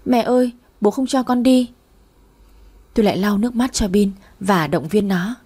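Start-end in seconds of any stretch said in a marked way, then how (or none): 0.1-1.7 put-on tearful child. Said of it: "mếu máo khóc".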